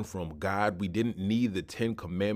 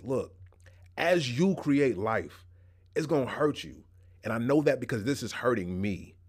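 tender. Retold or imitated. God speaking tenderly to the woman, lightly voiced tender hurt. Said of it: "I'd imagine God says this with tenderness almost".

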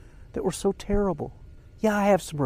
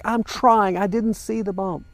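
higher, defensive protest, mildly acted; retold upset; 6 semitones higher than usual. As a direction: snap back as if upset, re-enacted. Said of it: "I got so upset with her".

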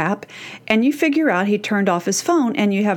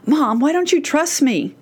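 upset mock yell; 5 semitones higher than usual. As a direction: protest as an upset daughter, lightly acted. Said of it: "daughter gets upset and yells".

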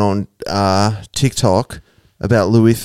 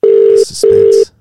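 whisper; 14 semitones lower, 6 dB louder than usual. Real, not acted. Waiting on the call.

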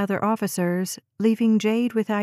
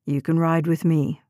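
low officer's voice; deep, restrained policeman; male officer relenting; 5 semitones lower than usual. A narrator's reading. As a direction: drop the pitch and give terse orders. Officer gives in to mother.

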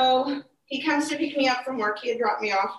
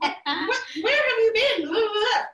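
mock angry yell; 9 semitones higher than usual. Scolding late husband, retold.

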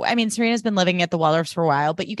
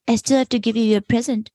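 coy flirt; 4 semitones higher than usual. Retold or imitated. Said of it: "And she's like".

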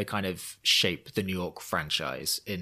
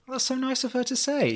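laughing. Real, not acted. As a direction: giggle out the words. Flattered by a compliment, laughing.

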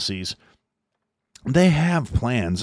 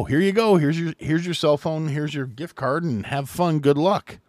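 much higher, breezy sarcastic giveaway voice; mock cheerful handout; 7 semitones higher than usual. Biden administration handing migrants phones and gift cards, sarcastic mock cheer. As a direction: sneer it like a careless host handing out freebies.

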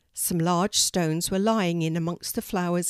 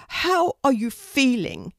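higher, slow bird voice; concerned raven; 6 semitones higher, 4 dB louder than usual. Acted. Harris checks on his freed friend, slow concerned voice. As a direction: ask deliberately, pitched up.

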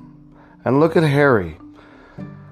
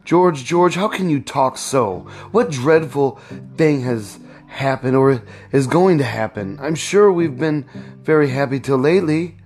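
higher, a touch of frightened pleading; alarmed pleading; 4 semitones higher than usual. Acted. Wife pleading with George, a touch of fright. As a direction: reach out to him in mild alarm. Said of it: "Surprised and frightened".

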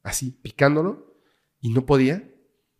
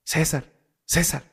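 a bit louder, more insistent calling; 3 semitones higher, slower than usual. Retold or imitated. Boy calling his brother louder to wake him. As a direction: push the name out harder to wake him. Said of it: "le decía más fuerte".

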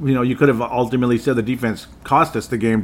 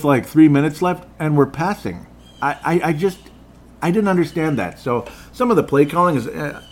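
higher and louder exasperated rant; frustrated rant; 5 semitones higher, 3 dB louder than usual. Real, not acted. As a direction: vent about the bad calls. Ranting about play calling.

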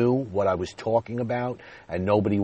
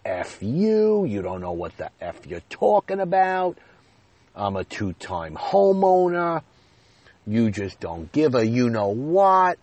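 screaming like a madman; 3 semitones higher than usual. Retold or imitated. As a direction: yell at her like a madman, rapid fire. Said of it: "I screamed at her like an absolute madman".

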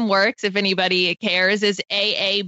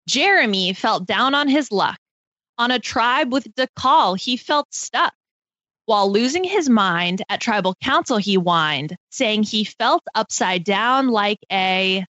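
reading a limerick. Acted. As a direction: read it out like a rhyming riddle. Reads her limerick aloud.

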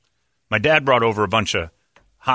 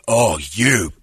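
high, loud outraged yell; mock outraged shout; 9 semitones higher, 4 dB louder, slower than usual. Friend Thomas realizing the seat heater trick, mock outraged yell. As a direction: yell it like you've been betrayed. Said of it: "and he goes".

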